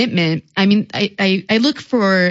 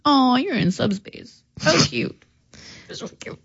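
patronizing; 5 semitones higher, 4 dB quieter than usual. Retold or imitated. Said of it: "it's just very like".

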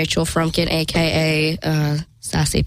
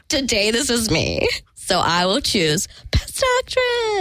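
imagined actress mother; 4 semitones higher, slower than usual. Acted. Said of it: "looked at one of her daughters and went".

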